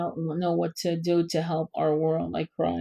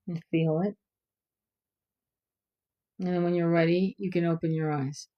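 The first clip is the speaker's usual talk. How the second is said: guided meditation. Acted.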